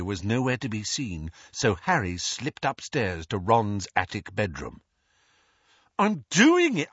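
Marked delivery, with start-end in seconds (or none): 6.0-6.9 loud, high call that he's on it; teen calling out, thinking his mother is coming; defensive shout. Acted. Ron caught, calls out.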